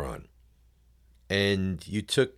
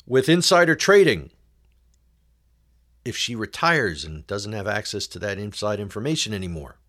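mocking rant; 3 semitones higher than usual. Sarcastic rant about Pelosi's money.

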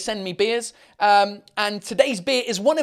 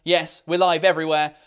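ordinary talk, nothing marked

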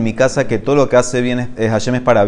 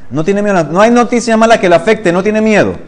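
emphatic teaching; 8 semitones higher, 5 dB louder than usual. Acted. Teacher stresses the lesson's point.

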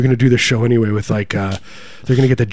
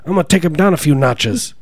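high-pitched campaign-boast impression; mock presidential bluster, pitched up; Trump; 6 semitones higher than usual. Comic as candidate threatening a singer, raised Trump voice. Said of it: "That's my Trump impersonation".

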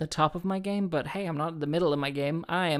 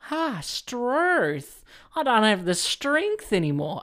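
Kath and Kim voice; 7 semitones higher, 5 dB louder, slower than usual. Retold or imitated. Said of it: "a weird Kath and Kim voice".

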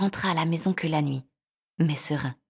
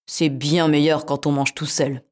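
cat voice; 2 semitones lower, 5 dB louder, slower than usual. Acted. Cat voiced, self-satisfied.

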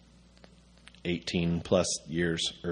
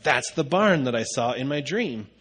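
imitated excitement, higher pitch; freaking out; 5 semitones higher than usual. Wife tells husband about the barn, mildly freaking out. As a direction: lightly mimic her amazed outburst, voice lifted. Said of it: "she starts freaking out in the car".

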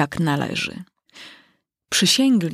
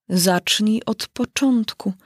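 gravely; 3 semitones higher, slower than usual. Acted. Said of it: "rzekł król z powagą".

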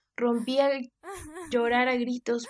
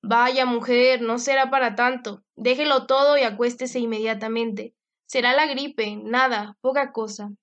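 firm commands; 4 dB louder than usual. Acted. Father gives orders to maid.

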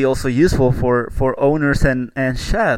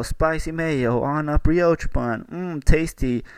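mock food influencer. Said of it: "make a fake food profile and be like".

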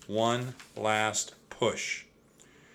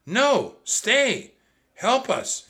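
high, loud pleading shout; 12 semitones higher, 6 dB louder, much slower than usual. A narrator's reading. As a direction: beg the serpent to stay. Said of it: "shouted Annie".

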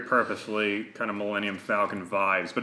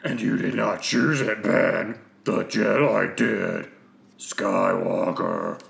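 fancy villain voice; 2 semitones lower, slower than usual. Acted. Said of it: "a big fancy character to do".

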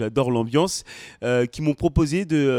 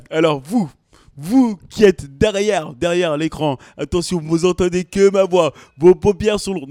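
hypnotist voice; 3 semitones higher, 7 dB louder than usual. Pretend. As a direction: lull the audience like a showman hypnotist. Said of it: "je fais le, l'hypnotiseur ou le marabout".

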